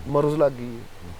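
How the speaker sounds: مرض as two syllables, maroz; Hindko pronunciation. Shown as a demonstration. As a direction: say مرض with an o before the z, Hindko style. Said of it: "ان کو والے مرض کہتے ہیں".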